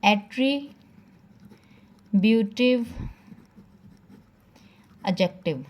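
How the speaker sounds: each syllable of एट्रीब्यूटिव drawn out very slowly; slow dictation. Shown as a demonstration. Teacher dictating a term to students, very slow. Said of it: "number seven पे आपको आएगा".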